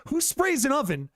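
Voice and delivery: ranting at his girlfriend's oven mess, mock outraged; retold angry disbelief. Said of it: "Like, I am just so angry".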